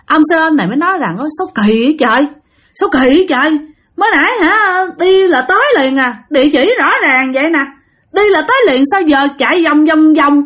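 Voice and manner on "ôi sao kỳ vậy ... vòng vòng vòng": higher-pitched, bewildered protest; baffled complaint. Retold or imitated. Driver lost circling the alleys, baffled. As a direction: puzzle aloud in exasperation.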